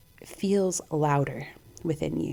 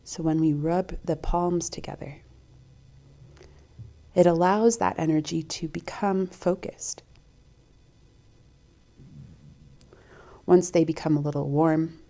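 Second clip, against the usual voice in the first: calm meditation guide, long pauses between phrases; guided meditation. Acted. Host guiding listeners to tune into breath and heart, calm meditation voice. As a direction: guide them gently inward, leaving space to breathe.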